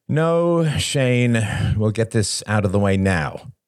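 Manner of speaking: high-pitched opening, settling as it goes; exasperated sigh falling away; sighing insistence. A narrator's reading. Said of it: "he sighed".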